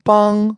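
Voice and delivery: "Bang" held level on a flat tone; first tone. Shown as a demonstration. Teacher going over the tones, "Bang" in flat first tone. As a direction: say "Bang" in Mandarin first tone, no rise or fall. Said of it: "is first tone".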